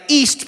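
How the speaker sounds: "East," pitched high and stretched; drawn-out East. Retold or imitated. Locals naming their area, drawn-out high "East,". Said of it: "people draw it out".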